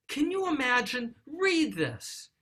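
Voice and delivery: an upset dad thrusting the letter at his wife; upset father. Retold or imitated. Father upset by his son's letter, exasperated outburst. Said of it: "He's really upset".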